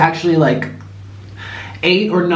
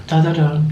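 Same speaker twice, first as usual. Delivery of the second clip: Law and Order theme. Retold or imitated. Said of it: "I sound like Law and Order".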